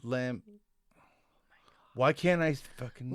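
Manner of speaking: whispered, annoyed at himself; frustrated whisper. Real, not acted. Frustrated at forgetting name.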